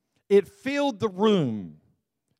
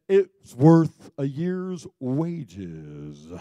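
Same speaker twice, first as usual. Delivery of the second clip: snooty Judas voice; 2 semitones lower, 3 dB louder, much slower than usual. Retold or imitated. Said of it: "and then he says".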